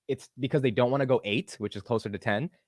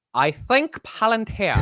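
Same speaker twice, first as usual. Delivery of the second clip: slow, high-pitched put-on British; attempted British accent; 10 semitones higher, 3 dB louder, much slower than usual. Shown as a demonstration. Host retries the accent and co-host laughs, exaggerated British attempt. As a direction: draw it out high, badly faked British. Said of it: "without some level of accent raise".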